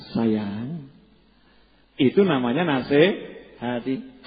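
soft, slow loving counsel; tender advice. Retold or imitated. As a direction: say it softly to your spouse. (menasihati dengan lembut)

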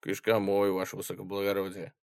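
fast, soft soldier's answer; quick reply. Acted. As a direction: snap out the answer. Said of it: "быстро ответил солдат".

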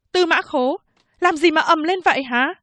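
high, sharp female officer voice; stern policewoman. Acted. Policewoman rushes in to question the prisoner, high and stern. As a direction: demand to know the noise.

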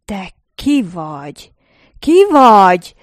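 a rasping cry that bursts into a roar; terrible roar. A narrator's reading. Robert roars in terror at the narrator, a hoarse bellow. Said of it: "hördült fel rettenetes hangon".

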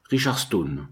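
pinched nasal disguise through a wooden wall. Acted. Narrator disguising his voice at Pickman's cabin wall, nasal. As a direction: say the name through the nose, disguised. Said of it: "d'une voix nasillarde".

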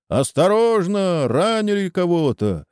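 high cry of alarm; alarmed warning. A narrator's reading. Warning cry amid gunfire. (тревожный крик)

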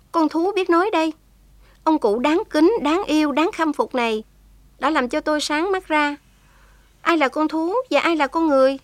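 put-on a young prisoner speaks up with feeling; young woman's voice.

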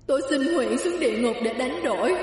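father wails, offering his soul; crying plea. A narrator's reading. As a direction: wail the plea. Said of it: "gào khóc thảm thương".

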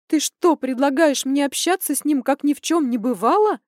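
high, loud outrage; indignant. A narrator's reading. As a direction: throw the question back in disbelief. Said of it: "возмутилась я".

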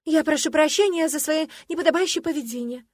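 нехотя, высоко и с нажимом; извинись через силу; сквозь зубы. Acted. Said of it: "сквозь зубы процедила". (вынужденное извинение сквозь зубы)

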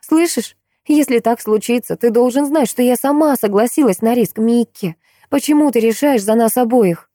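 high, urgent desperate plea; desperate pleading. A narrator's reading. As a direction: shake him with the words. Maya shaking him, pleading.

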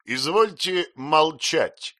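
loud, slow, commanding; thundering command. A narrator's reading. Brother commanding his wife, thundering. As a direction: order her silent. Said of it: "прогремел её брат".

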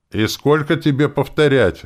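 annoyed dad losing patience; irritated. A narrator's reading. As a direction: snap with fed-up annoyance. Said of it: "раздражился папа".

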